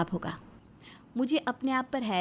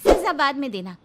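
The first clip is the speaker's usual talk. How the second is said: louder, sharp comeback; defiant retort; 5 dB louder than usual. Acted. Wife defying her threatening husband, loud sharp retort. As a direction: throw the threat back at him.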